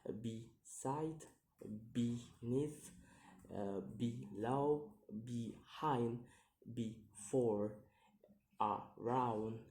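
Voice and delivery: each word from "without" to "above" slowly split in two; second-syllable stress. Shown as a demonstration. Teacher listing examples, each word in two measured beats. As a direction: separate every syllable, lifting the second. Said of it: "have a second syllable".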